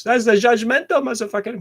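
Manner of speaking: high, loud mocking voice; mock judgmental snob. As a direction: sneer it like a snob.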